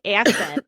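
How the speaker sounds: put-on "accent" with a Midwestern first vowel; imitated accented "accent". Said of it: "the way Amy says accent".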